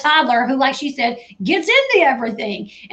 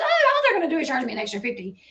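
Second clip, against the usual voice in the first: fast, dismissive imitation; mock nonchalance; faster than usual. Commentator repeating a tenant's late-fee excuse, mock breezy. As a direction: breeze through the excuse mockingly.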